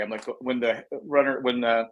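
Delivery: talking through hiccups; words broken by hiccups. Real, not acted. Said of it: "I'm sorry, I got the hiccups".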